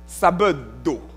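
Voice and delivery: sábado said in a Portuguese accent. Shown as a demonstration. Preacher trying the Portuguese word with its accent. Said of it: "mon portugais n'est pas si bien que ça".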